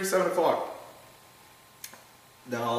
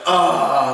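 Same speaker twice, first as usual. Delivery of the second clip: retold exasperated groan; 3 semitones higher, 8 dB louder than usual. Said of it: "And Chris was like".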